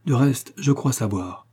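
slow, "De reste, je crois savoir" weighted word by word; slow down and lean on each word of "De reste, je crois savoir"; stressing each word. A narrator's reading. Olivier hints to Ned that he knows, stressing each word of "De reste, je crois savoir". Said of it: "en accentuant chaque mot".

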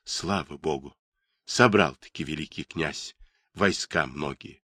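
soft whispered relief. A narrator's reading. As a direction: breathe it out, hushed. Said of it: "прошептал".

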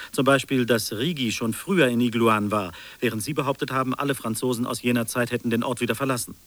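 loud, pressing, fast start, driving each contradiction home; loud accusation. Acted. Investigator confronts the storyteller over his lies, loud and accusing.

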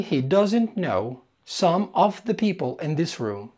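very slow, words drawn apart; slow model sentence. Shown as a demonstration. Teacher says the English sentence slowly for students, very slow. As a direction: dictate it slowly to learners. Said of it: "هقولها بالإنجليزي".

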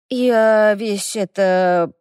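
очень медленно, мямля спросонья; тяни слова сонно и невнятно. A narrator's reading. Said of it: "промямлила моя истинная пара". (сонный эльф мямлит, протирая глаза)

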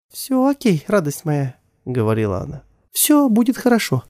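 high, tender reassurance; comforting mother. Acted. Mother to crying son, tenderly comforting. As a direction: hold him and promise it's all right.

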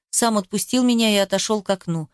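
usual speaking voice

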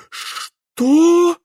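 a frightened mayor yelps; startled shriek of terror; horrified cry. Acted. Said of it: "в ужасе воскликнул мэр Клопс".

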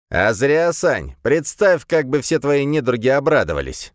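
high, loud gleeful jeer; loud mocking demon glee; laughing demon. A narrator's reading. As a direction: crow it out, delighted with the joke. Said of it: "рассмеялся Легион".

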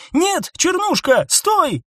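high urgent call to the bird; high sharp call. A narrator's reading. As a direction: stop the bird in its tracks. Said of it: "крикнула". (окрик «стой»)

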